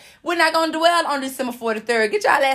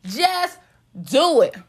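a hint of an ad announcer; Nike commercial voice; slower than usual. Shown as a demonstration. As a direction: sell it like a sneaker ad. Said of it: "In my Nike's commercial voice".

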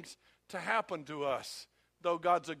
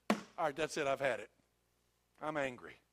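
lower, contained anger as God; fed-up anger; 6 semitones lower than usual. Acted. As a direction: drop low and declare you are done. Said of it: "There comes a point when God says".

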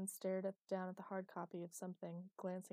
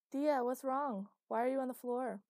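loud, high, exaggerated worry; mock concern; 6 semitones higher, 11 dB louder than usual. A narrator's reading. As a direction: overplay the concern. Exaggerated concern to prove point.

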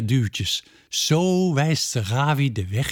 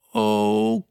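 character voice; 7 semitones higher than usual. A narrator's reading. Peerke wishes, voiced character.

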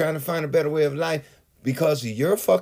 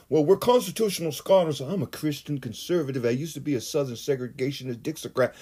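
mock conservative voice.

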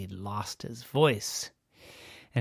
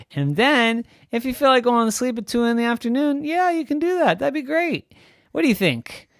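high, loud mock-enthusiastic dad; teasing daddy; 7 semitones higher, 8 dB louder than usual. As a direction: oversell the idea playfully. Daddy voiced.

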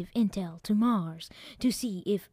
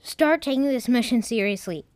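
stern; 3 semitones higher, 5 dB louder than usual. Acted. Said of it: "computer said sternly".

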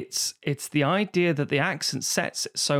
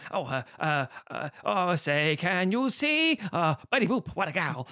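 put-on German-accented fumbling English; German accent, grasping at American phrases; German soldier; 2 semitones higher than usual. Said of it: "the German soldier is digging".

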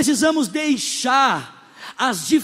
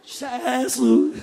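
mock worship leader.

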